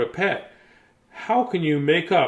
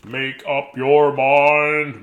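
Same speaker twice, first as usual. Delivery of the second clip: slow urging; 2 semitones lower, 4 dB louder, much slower than usual. Acted. Urging himself to decide.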